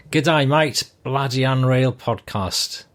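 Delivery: put-on hammy Australian accent reading a listener's letter; bad Australian accent. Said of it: "my Aussie accent isn't too good".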